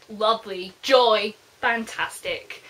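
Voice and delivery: dry, mock-cheerful words; sarcastic. Real, not acted. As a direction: say it like you mean the opposite. Sarcastic reaction to Connie's presence.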